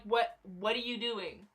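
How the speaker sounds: deadpan disbelief at the fans; reacting to fans freaking out, slow and incredulous. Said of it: "I'm just sitting here like".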